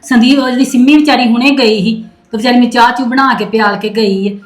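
loud complaint. Acted. Mother complains to her son.

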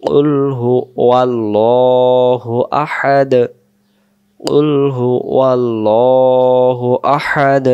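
slow, drawn-out chanted recitation; Quran recitation. Shown as a demonstration. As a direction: intone each word slowly and melodically.

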